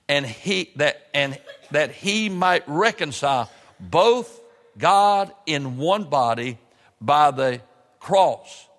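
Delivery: slow, measured Bible reading with drawn-out key words; scripture reading. Real, not acted. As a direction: read the verse solemnly, phrase by phrase. Continues reading scripture aloud.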